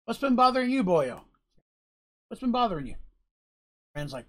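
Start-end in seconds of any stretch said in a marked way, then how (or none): 0.1-2.9 lightly voiced gruff companion prodding; gruff Kip voice. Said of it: "He's like".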